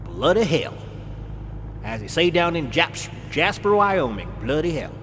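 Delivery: bloody hell in a hammed-up British accent; a lightly put-on British accent; mock British accent. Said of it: "you love my accent".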